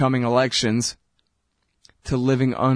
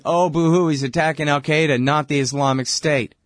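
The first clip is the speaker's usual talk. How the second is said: mock whining; 3 semitones higher than usual. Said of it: "they've been complaining".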